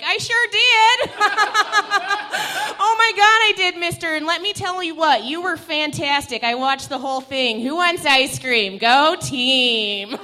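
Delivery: high, loud, hammy soccer mom voice; chirpy fake-nice customer service voice; work voice. Shown as a demonstration. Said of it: "Be so careful I don't do that again".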